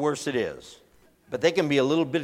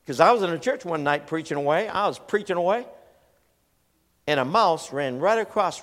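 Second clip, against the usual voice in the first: usual speaking voice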